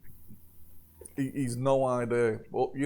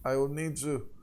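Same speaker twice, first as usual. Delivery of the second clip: put-on French accent. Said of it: "Ma sacre bleu".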